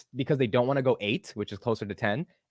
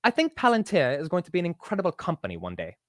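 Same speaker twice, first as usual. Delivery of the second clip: higher-pitched put-on British accent; 6 semitones higher than usual. Shown as a demonstration. Host tries a British accent to be rated, British accent. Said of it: "Let me do a British accent".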